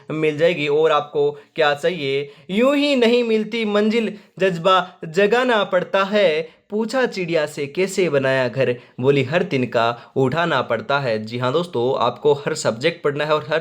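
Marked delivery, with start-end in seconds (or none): 2.5-11.2 reciting motivational verse. Acted. Teacher motivating students at class end, verse recital. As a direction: recite it like an inspirational couplet, stretching the second phrase.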